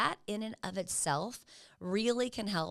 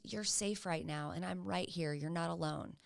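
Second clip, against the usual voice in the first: reassuring; 5 dB quieter than usual. Shown as a demonstration. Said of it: "Another thing you might say is".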